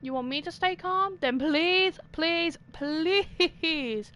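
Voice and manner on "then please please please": begging. Real, not acted. Begging character.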